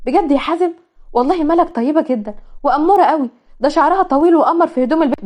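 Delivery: lightly voiced eager sister; excited sister. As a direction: rave about the bride-to-be. Nada excited about match.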